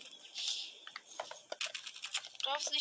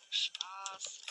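whisper; 6 semitones lower, 10 dB quieter than usual. Real, not acted. Taking back an insult.

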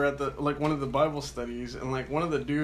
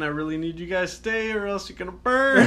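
laughing mock plea; 4 semitones higher, 4 dB louder than usual. Mock needy Jesus, laughing.

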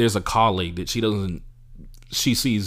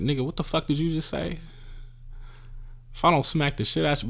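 higher-pitched, retold indignation; mock indignant retort; 7 semitones higher than usual. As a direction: answer back in mild mock outrage.

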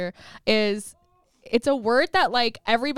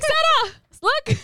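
high, excited call to a daughter; hyped-up mother voice; excited mom; 14 semitones higher, 3 dB louder, much slower than usual. Retold or imitated. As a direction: imitate mom calling out, pitched way up. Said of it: "She's like".

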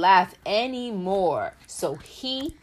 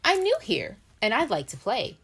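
Peanut Butter voice; 2 semitones higher, faster than usual. Acted. Parent voices Peanut Butter's refrain.

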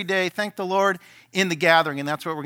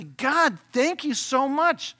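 grateful prayer; 8 semitones higher, much slower than usual. Shown as a demonstration. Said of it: "you just say".

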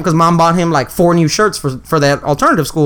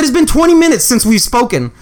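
retold exasperation; 6 semitones higher than usual. Angry phone call with brother.

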